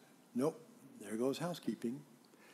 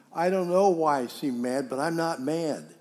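louder, testy retold protest; irritated denial; 6 dB louder than usual. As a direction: act out growing annoyance at being questioned. Acted rising denial of anger.

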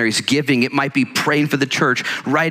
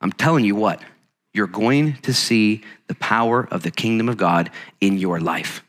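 confident; 2 semitones lower than usual. Retold or imitated. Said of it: "with confidence and say".

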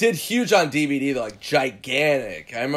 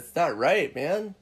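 mock serious; 3 semitones higher, 3 dB quieter than usual. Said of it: "And he got all serious".

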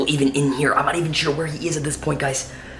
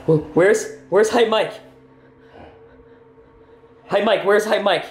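high, raised questioning; higher-pitched dog-directed question; prompting a dog; 7 semitones higher, 3 dB louder than usual. Acted. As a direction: ask it as you would a pet. Asking the dog to find Mike.

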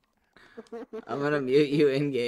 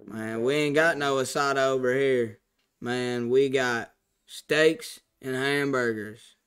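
Southern drawl. Pretend. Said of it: "talk like this for the rest of the time".

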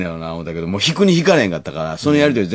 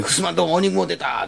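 high, excited grandma cry; excited exclamation; 11 semitones higher than usual. Retold or imitated.

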